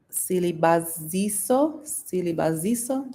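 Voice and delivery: Silibaziso sounded out slowly, syllable by syllable, rising at the end; careful name attempt. Shown as a demonstration. To a viewer, unsure name pronunciation, slow and careful. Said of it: "Did I say it right?".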